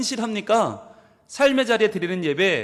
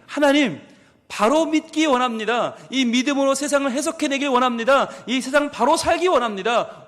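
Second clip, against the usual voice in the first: a pastor's pleading prayer to God; fervent prayer. Acted. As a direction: pray aloud for the congregation, earnest and rising. Leads the congregation in prayer.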